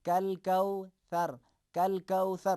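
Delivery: کل کوثر with a light, Urdu-like k; slow, light کل کوثر; light kaaf. Shown as a demonstration. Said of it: "اسی انداز میں".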